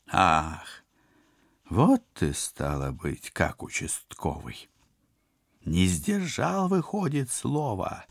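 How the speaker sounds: high, slow mocking villain. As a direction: sneer like an evil sorcerer. Koshchei accuses the hero.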